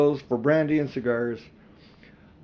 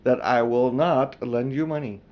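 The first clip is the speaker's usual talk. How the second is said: a touch of a stern aunt; firm quiet voice. Acted. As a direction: lay down the law calmly. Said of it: "in her firm, quiet voice".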